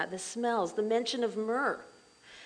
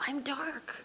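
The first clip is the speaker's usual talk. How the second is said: voicing the Shulamite; 5 semitones higher, 4 dB louder than usual. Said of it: "There's an unworthiness and humility".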